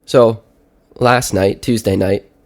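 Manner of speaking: stuffy blocked nose, sick with a cold. Real, not acted. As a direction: talk like there's a clothespin on your nose. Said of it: "I sounded more like I sound right now, which is like I have a clothespin on my nose".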